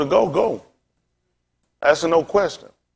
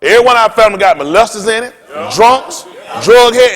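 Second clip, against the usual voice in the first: louder and louder, shouting the list; railing shout; 4 dB louder than usual. Real, not acted. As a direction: hammer out the list, building to a shout. Preacher rails at families.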